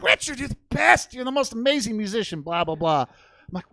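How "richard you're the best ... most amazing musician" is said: high, emphatic mock adoration; gushing fan. Smitten bartender praising Richard's playing, imitated gushing. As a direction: gush over him, pitched way up. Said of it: "And she's like".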